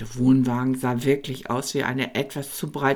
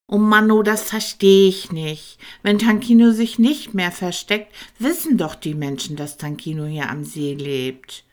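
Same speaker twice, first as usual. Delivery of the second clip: loud, high, baffled dragon; not getting it at all; puzzled little dragon; 6 semitones higher, 8 dB louder than usual. Acted. Tankino confused. (kleiner Drache laut und verwirrt)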